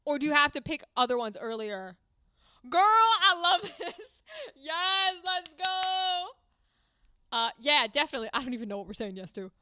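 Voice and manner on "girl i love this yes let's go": loud, slow, laughing through the words; delighted laughing gush. Real, not acted.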